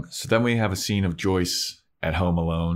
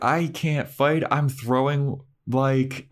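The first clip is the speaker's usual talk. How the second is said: mocking quote; 6 semitones higher, slower than usual. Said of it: "The part where she's like".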